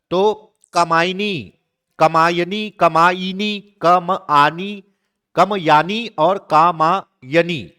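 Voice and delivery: slow, careful reading of each option, syllable by syllable; reading spelling options slowly. Shown as a demonstration. Teacher reading quiz options slowly to students. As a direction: spell out every variant slowly for the class. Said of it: "कौन सा शब्द है बताइए?".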